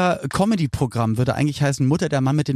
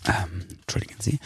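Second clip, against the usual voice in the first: whisper; 9 semitones lower, 8 dB quieter than usual. Real, not acted. Whispered aside before reading.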